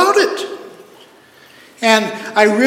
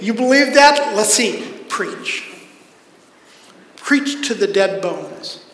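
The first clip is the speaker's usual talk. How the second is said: mock challenge. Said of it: "it almost sounds like this".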